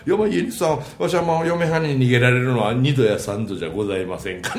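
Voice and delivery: lightly voiced sheepish husband; rakugo runaway wife's husband. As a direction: excuse yourself in Kansai rakugo patter. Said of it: "もう落語が出てくるんですよ".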